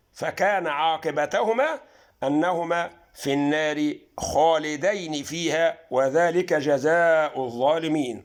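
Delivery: Quran recitation. Shown as a demonstration. Teacher recites Fussilat verse to viewers, slow chant. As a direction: chant the verse out, drawn long.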